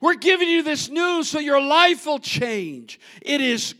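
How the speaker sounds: loud, high preaching as Nehemiah; voiced Nehemiah, shouting. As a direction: command them to rejoice. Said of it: "he began to say".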